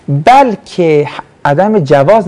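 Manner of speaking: عدم جواز said slowly, word by word, for writing down; slow dictation. Shown as a demonstration. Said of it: "نوشتم عدم جوز". (آهسته و شمرده برای نوشتن)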